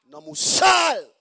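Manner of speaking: loud, high, slow rebuke; loud high shouted scolding. Acted. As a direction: bellow it from the pulpit.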